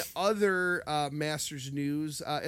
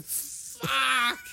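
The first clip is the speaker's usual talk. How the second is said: drawn-out, higher-pitched swear; mock angry curse; 7 semitones higher than usual. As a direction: stretch it out like a frustrated golfer. Acting out golfer's angry club throw.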